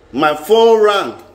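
slowed right down, each word landing; slow dramatic beat. Shown as a demonstration. Telling viewers about the fateful call, slow and dramatic. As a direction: draw it out like suspense is building.

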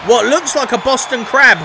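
wrestling commentator. Acted. Calls the match live.

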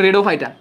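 রেডোফাইটা as "re-do-fai-ta"; altered pronunciation. Shown as a demonstration. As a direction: begin রেডোফাইটা like the word "red". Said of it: "এটার আমরা উচ্চারণ করবো কি?".

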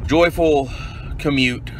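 sarcastisch freudig; mock joyful. Real, not acted.

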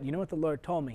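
ordinary talk

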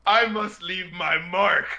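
slow, drawn-out mock-dramatic vow; hammed-up, deliberate declaration; mock-solemn resolve. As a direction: intone it like a grand mission. Acts uploader's grandiose inner thought.

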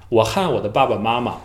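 和 in 我和我的老师 said as han; Taiwanese 和 as han. Shown as a demonstration. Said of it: "经常说这样的一个发音".

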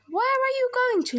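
high, swooping question; owl character. Acted. Owl spots a tasty mouse, high and inquisitive.

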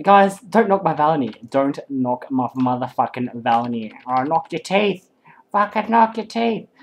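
put-on Australian bogan aggression. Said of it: "that's my Bogan voice right there".

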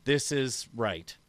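low, slow, quiet admission; chastened. Acted. Handing the chainsaw over to Justin, chastened. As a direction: give in softly, head bowed. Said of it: "with my head bowed down".

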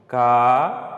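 "casinha" with very long pauses between syllables; sílaba por sílaba. Shown as a demonstration. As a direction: isolate each syllable of "casinha", first one loud. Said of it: "Você fala ela devagar, sílaba por sílaba". ("casinha" bem pausado, ca, zi, nha)

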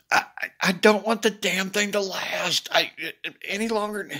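spiralling into worry; worked up. Real, not acted. Telling Deb he doesn't want to drag it out, worked up. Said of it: "I'm getting myself worked up".

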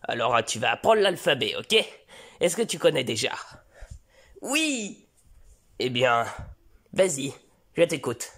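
calm father starting a lesson; lightly voiced father. Father teaching his son the alphabet, patient low voice.

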